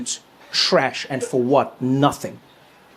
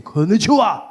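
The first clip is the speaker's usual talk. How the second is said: strong greeting; 3 semitones higher than usual. Shown as a demonstration. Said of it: "Even the greeting".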